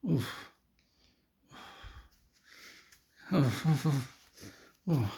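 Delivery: soft, acted groans of discomfort; queasy oofs. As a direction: let out little oofs, feeling weird. Todd moaning, feeling weird.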